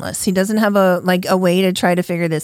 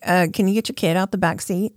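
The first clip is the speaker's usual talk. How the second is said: mock timid request; 4 dB quieter, faster than usual. Imagined timid version of thief's demand.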